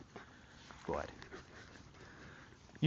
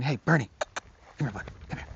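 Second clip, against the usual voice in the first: calm call; faster than usual. Shown as a demonstration. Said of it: "there's a difference between".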